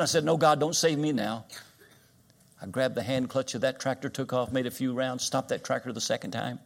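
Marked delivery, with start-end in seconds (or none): 0.2-1.5 defiant refusal. Retold or imitated. Retold refusal to God.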